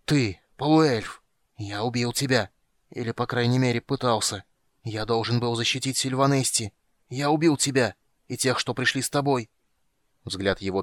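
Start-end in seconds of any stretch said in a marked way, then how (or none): 0.0-9.5 maddened king rages at the half-elf; raving fury. Acted. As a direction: rage at him as a madman. Mad king raging at enemy.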